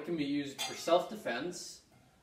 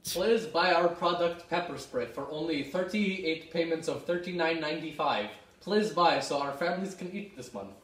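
hard sell ad; 4 semitones higher than usual. Acted. Desperate ad plea.

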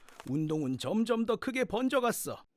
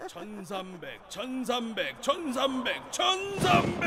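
building shout. Acted. Thugs counting, ending in a shout.

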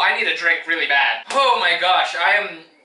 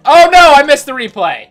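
surprised dismay; 8 semitones higher, 13 dB louder than usual. Real, not acted. Sudden loud dismay.

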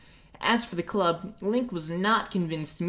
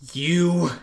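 louder, angry growl; 6 dB louder than usual. Acted. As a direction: step toward him. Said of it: "Link growled".

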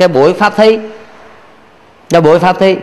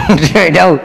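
ordinary talk, nothing marked

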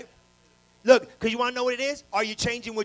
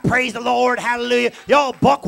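mock praise shout; 11 dB louder than usual. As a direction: belt it like a happy church crowd. Preacher mocking praise crowd.

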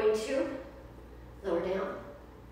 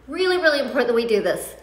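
excited cheer; 8 dB louder than usual. Real, not acted. Cheering on a friend.

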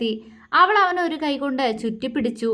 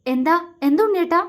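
higher, quick startled question; 6 semitones higher, faster than usual. Acted. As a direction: blurt it out, taken aback. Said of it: "അവൾ പകപ്പോടെ ചോദിച്ചു". (പകപ്പോടെ വേഗത്തിൽ ഉയർന്ന ചോദ്യം)

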